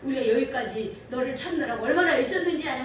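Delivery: a preacher voicing Mary and Joseph scolding young Jesus; parents scolding. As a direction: play the worried parent telling him off. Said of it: "뭐 야단을 칩니다".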